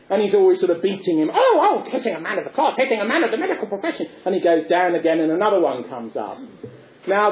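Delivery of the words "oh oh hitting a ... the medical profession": a hint of an outraged doctor, rushed; mock protest. Doctor protesting Punch's blows, lightly voiced fluster. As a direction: splutter it like a wounded snob.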